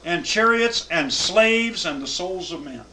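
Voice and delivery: solemn scripture reading to a class. Acted. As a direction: read the verses out with weight. Reads scripture aloud.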